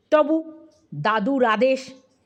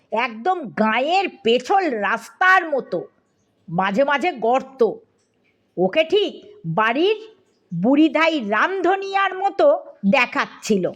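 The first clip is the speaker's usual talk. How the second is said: ordinary delivery, nothing marked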